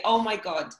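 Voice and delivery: lightly hammed-up, over-dramatic sorry; mild pantomime gushing regret; camped-up apology. Shown as a demonstration. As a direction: play a pantomime apology, half mocking. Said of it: "really camp it up and say".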